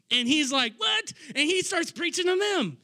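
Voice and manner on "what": a much higher, incredulous "What?"; mock surprise. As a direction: play the disbelief lightly. Peter surprised by the order.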